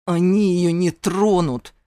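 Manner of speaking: loud growl of defiance. A narrator's reading. Zane growls his protest at the mentor. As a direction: growl it, refusing to accept. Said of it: "прорычал я".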